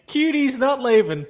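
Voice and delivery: high-pitched mocking "Cutie's", with a K sound for SH; mimicked mispronunciation. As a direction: tease by saying "Cutie's" for Shooty's, pitched high. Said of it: "you called him cutie".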